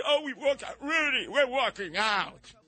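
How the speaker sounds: high, shouted mock indignation; mock outraged judges. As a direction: storm out in a high huff. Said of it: "the judges".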